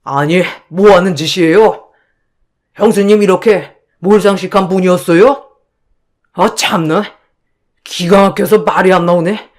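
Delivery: a lightly voiced husband, firm and offended; husband defending his wife, mildly angry. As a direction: demand an apology for his wife. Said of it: "남편도 매우 화가 난 눈치였죠".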